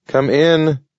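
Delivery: yelling. A narrator's reading. Old dog yelling at the knocker, gruff. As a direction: call out through the door. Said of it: "he yelled".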